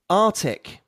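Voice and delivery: Arctic without the first c, ar-tic; American artic. Shown as a demonstration. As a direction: drop the k in Arctic. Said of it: "the second version is American".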